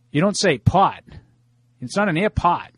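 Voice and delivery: airpot said without the R, Boston style; Boston r-drop. Shown as a demonstration. Host explaining Boston speech, saying "airpot" with no R. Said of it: "if you say airport".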